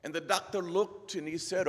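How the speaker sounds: Scottish tale-telling, building drama; Scottish brogue. Acted. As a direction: narrate in a put-on Scottish brogue. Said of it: "best Scottish brogue I can come up with".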